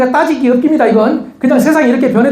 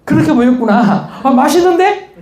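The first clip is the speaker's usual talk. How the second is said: slow, gentle husband's apology, rising at the end; soft apology; 2 semitones higher, slower than usual. Retold or imitated. Husband gently apologizing to his upset wife, slow and soft. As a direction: soothe her, unhurried and sweet. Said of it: "남자가 이렇게 말해요?".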